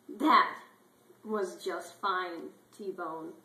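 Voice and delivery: grudging, slow, flat praise; damn him with faint praise; unhappy. Acted.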